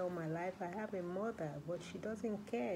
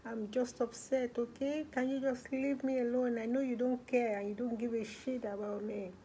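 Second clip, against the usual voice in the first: put-on frustrated teen; 3 semitones higher, 4 dB louder than usual. Girl telling staff to leave her alone: loud, frustrated. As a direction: make them back off, resentful. Nicole rejecting worker's questions.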